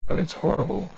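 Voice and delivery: frightened. A narrator's reading. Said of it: "shrinking back from the window".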